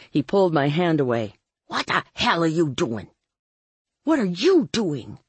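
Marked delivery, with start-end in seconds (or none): 1.7-3.1 lightly voiced indignant man; Ray. A narrator's reading. Ray pulls her hand away, indignant voice. 4.0-5.2 higher retort, stress on YOU; hissed. A narrator's reading. Dory turns it back on Ray, hissed retort. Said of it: "I hissed".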